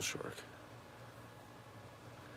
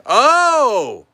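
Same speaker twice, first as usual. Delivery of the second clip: sudden high loud oh; surprised; 15 dB louder than usual. Real, not acted. Spotting a figure on the shelf, surprised. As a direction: gasp it out, caught off guard.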